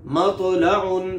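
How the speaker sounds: मतलाउन said slowly with a thin, light ता; मतलाउन with a clear unemphatic ta sound; Arabic tajweed demo, thin ता. Shown as a demonstration. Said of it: "मिसाल इसकी क्या है?".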